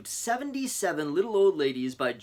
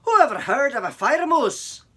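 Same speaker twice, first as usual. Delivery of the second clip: laughing; 12 semitones higher, 9 dB louder than usual. Acted. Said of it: "laughed the chief".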